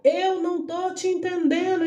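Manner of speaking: high-pitched imitated yell, held back in volume; retold yell. Doctor repeating she can't understand, retold yell. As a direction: raise the pitch as if calling out. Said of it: "Ela gritava".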